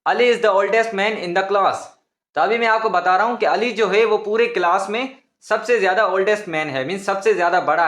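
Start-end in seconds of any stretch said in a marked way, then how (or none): 0.0-1.8 slow example sentence. Shown as a demonstration. Teacher reading a model sentence to students, slow. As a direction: dictate the sentence slowly and clearly. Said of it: "example बताता हूँ oldest का".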